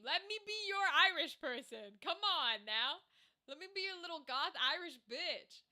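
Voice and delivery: playful put-on Irish accent. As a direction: plead lightly with an Irish lilt. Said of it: "I could do that accent".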